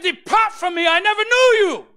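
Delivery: high, loud final judgment; thundering "depart from me"; stern rebuke. Acted. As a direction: cast them out with a shout. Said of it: "No, he said".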